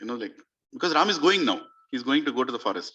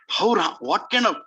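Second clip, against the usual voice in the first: awed outcry; 7 semitones higher, 4 dB louder than usual. Real, not acted. Preacher exclaims in awe.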